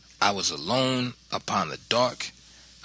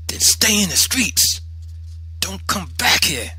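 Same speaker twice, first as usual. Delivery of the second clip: loud, high scolding command; angry mother; 9 semitones higher, 5 dB louder than usual. A narrator's reading. Mother refusing son shelter, loud angry order. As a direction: cast him out with a raised voice.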